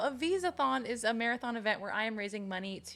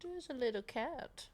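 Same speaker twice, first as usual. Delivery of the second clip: soft unvoiced whisper; 7 dB quieter than usual. Real, not acted. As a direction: hush it like spotting a cat. Spots a cat, whispers.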